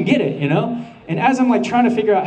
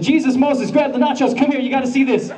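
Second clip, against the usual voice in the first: excited; 6 semitones higher than usual. Retold or imitated. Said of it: "played it slow and said".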